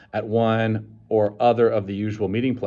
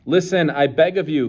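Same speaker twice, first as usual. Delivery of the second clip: earnest plea; 6 semitones higher, 5 dB louder than usual. A narrator's reading. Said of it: "cried the savage earnestly".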